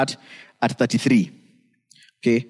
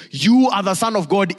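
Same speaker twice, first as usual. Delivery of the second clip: higher-pitched cry, moderately raised; mock demon yell; 5 semitones higher than usual. Preacher quoting demons trying to derail Jesus, mild mock yell. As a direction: call out high, as if yelling. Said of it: "They are yelling".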